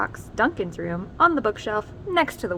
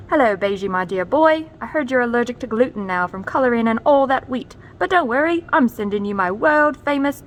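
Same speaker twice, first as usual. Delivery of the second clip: a lightly voiced hearty father, a bit louder; dad's letter voice; 2 semitones higher, 6 dB louder than usual. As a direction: read like a jolly dad boasting his cookies.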